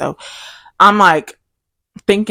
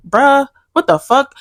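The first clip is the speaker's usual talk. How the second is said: shocked reaction; 8 semitones higher than usual. Retold or imitated. Boyfriend voiced reacting.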